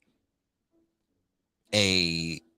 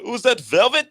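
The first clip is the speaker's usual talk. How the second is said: much higher, louder put-on voice; high mocking voice admiring something fancy; movie quote; 14 semitones higher, 11 dB louder than usual. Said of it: "I say that a lot".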